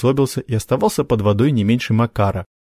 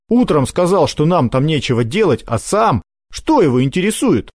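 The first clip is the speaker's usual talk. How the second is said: put-on agitated older brother; 6 semitones higher than usual. Makar excited accusing.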